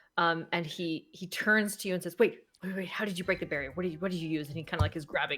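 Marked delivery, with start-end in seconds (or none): 2.2-4.5 frantic, flustered, rushed and panicky delivery. Voicing a doctor who grabs at a player, freaking out. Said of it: "Doctor Cone's kinda freaking out".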